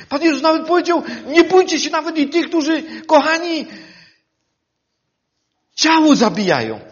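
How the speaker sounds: impassioned pulpit voice; preaching at full force. Acted. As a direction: drive the warning home to the congregation.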